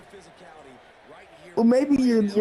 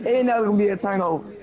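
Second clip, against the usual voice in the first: fast heated protest; faster than usual. Real, not acted.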